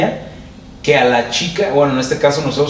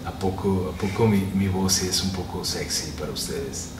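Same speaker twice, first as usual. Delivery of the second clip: much softer, low teasing seduction; mock seductive voice; 7 semitones lower, 12 dB quieter than usual. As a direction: purr it to the listeners as a joke. Jokes about his sexy voice. (voz seductora de broma, mucho más suave)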